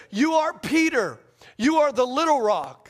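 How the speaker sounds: each word set apart, "You are the little rock"; emphatic declaration, leaning on "little rock". Retold or imitated. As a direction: stress "Peter" and "little rock" firmly. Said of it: "In the Greek, it's emphatic".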